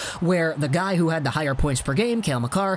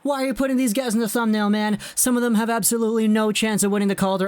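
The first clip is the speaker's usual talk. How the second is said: higher-pitched protesting viewer; mock complaint; 5 semitones higher than usual. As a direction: put on an exasperated fan's objection. Voices a viewer's thumbnail complaint.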